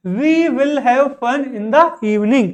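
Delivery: every word drawn out, very slow; very slow dictation. Shown as a demonstration. Teacher dictating an example sentence to students, very slow. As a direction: spell it out slowly for learners.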